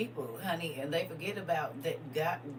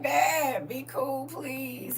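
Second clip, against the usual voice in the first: put-on higher, louder pleading kid; pleading child; 9 semitones higher, 5 dB louder, much slower than usual. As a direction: beg Dad to calm down. Child pleading with God as Dad.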